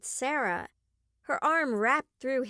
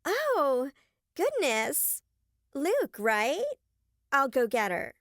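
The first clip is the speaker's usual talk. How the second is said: fake sweetness; 3 semitones higher, slower than usual. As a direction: gush with false charm to impress the visitor. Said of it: "Julie's voice instantly changed".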